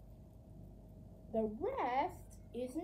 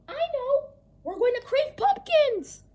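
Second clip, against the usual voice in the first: high, loud sudden idea; excited realization; 12 semitones higher, 10 dB louder than usual. Pretend. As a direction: gasp and blurt out the answer.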